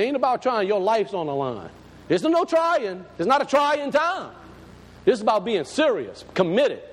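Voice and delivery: very frank. Retold or imitated. Pastor urging a sick man to stop just trying, very frank. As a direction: press each point home firmly. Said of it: "I was very frank with him".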